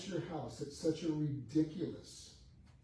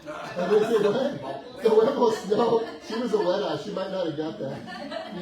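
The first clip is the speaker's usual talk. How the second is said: loud, laughing disbelief, slower; laughing loudly; 6 semitones higher, 13 dB louder than usual. Real, not acted. Speaker to the audience about the huevos joke, loud and laughing. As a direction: crack up while asking what was said.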